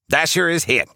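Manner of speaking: high-pitched character cry of alarm; Rudolph yelling. A narrator's reading. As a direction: cry out the bad news in a high put-on voice, briskly. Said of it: "yells Rudolph".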